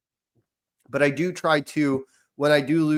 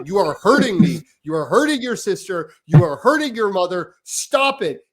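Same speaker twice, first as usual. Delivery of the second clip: retold yelling; 4 semitones higher, 4 dB louder than usual. Dad recalls yelling at son.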